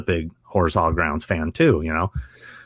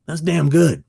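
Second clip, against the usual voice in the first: raised-pitch actor impression; imitated actor's compliment, pitched up; Robert Patrick; 7 semitones higher, 3 dB louder than usual. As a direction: give grudging praise as the actor. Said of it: "he goes".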